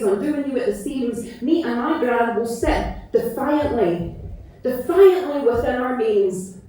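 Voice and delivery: measured, lilting poem recital, leaning on each line; spoken word poem. Acted. Performer recites her poem about Gran to audience, tender recital. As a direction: let the verses breathe like a love letter to Gran.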